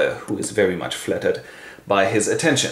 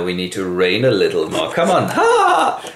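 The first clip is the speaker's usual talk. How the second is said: king; 4 dB louder than usual. Acted. King leads queen off laughing.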